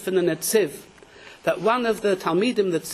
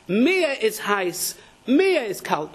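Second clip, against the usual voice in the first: slow, with "Mir" stressed in "Mir is heiß, mir is kalt"; 2 semitones higher, much slower than usual. Shown as a demonstration. Rabbi teaching the proper phrasing, "Mir" stressed. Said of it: "You have to say".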